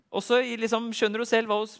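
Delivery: ordinary talk, nothing marked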